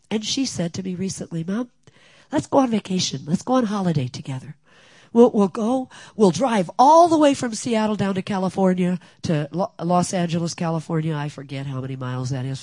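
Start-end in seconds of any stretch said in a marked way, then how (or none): 1.4-11.2 higher and louder eager plans; excited daughter. Retold or imitated. Daughter proposing a road trip to mom, higher and louder. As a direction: pitch it like a thrilled daughter.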